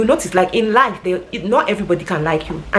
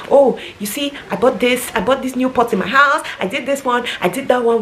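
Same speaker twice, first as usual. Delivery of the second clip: higher, sing-song play-report; mock eager report; 6 semitones higher than usual. Acting out a daughter-in-law reporting to her in-laws. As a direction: chirp it like a dutiful daughter-in-law.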